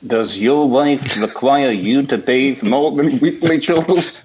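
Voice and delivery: put-on lightly Welsh, old preacher voice; a hint of a Welsh pulpit voice; Welsh preacher impression. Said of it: "Doctor Lloyd Jones".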